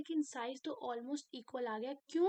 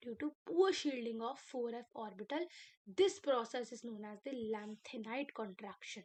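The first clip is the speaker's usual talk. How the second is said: slow dictation; much slower than usual. Shown as a demonstration. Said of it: "teacher dictates definition slowly".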